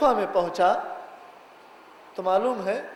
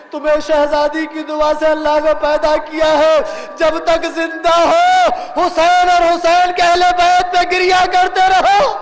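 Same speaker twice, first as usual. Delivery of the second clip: sustained exhortation, drawing out the endings; impassioned preaching; 6 semitones higher, 5 dB louder than usual. Real, not acted. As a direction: preach it in a rising, ringing chant.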